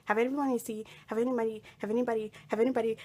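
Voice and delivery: rapid-fire mock desperate questioning; frantic asking. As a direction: ask everyone urgently, over and over.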